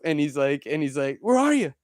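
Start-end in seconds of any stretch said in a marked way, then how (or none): 1.2-1.7 high-pitched call to a hidden ghost; mock calling out. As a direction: call into the dark, hammed up.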